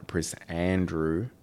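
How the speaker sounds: Prince Andrew said slowly, slipping into a stray foreign accent, rising at the end; the name Prince Andrew drifts into an unplanned accent; accidental accent slip. Real, not acted. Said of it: "I don't know why my accent changed".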